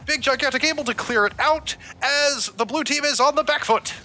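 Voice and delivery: 1920s radio announcer, high and bright; old-timey voice. Acted. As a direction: call it like a 1930s newsreel. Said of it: "I have to go into old-timey voice".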